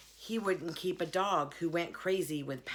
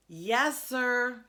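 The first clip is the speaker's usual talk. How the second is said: louder, higher answer; 7 semitones higher, 6 dB louder than usual. Acted. Girl answering the dazed preacher again, louder. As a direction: raise your voice so he hears. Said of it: "I said louder".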